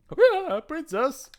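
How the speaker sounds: high startled yelp; flustered surprise. Acted. Knight startled by the princess, high flustered cry. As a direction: caught off guard, voice leaping up.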